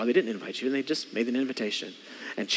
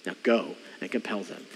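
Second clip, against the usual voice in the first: gentle voice of Jesus; 7 semitones lower, 7 dB quieter than usual. Retold or imitated. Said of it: "But Jesus says".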